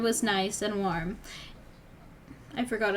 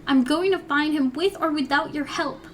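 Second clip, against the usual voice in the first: shouting; 5 semitones higher, 5 dB louder than usual. Acted. Girl yelling at her mother.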